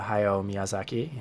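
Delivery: Hayao Miyazaki, English order and English vowels; English name order. Shown as a demonstration. Teacher contrasts the English order with the Japanese one, saying it the English way. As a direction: say it the English way, given name first. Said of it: "this is Miyazaki Hayao in, in Japanese".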